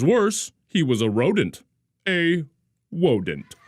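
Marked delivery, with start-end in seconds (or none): 2.1-3.5 wodent with a w for the r; says w for r. A narrator's reading. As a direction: rodent said as wodent. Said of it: "couldn't pronounce his R's".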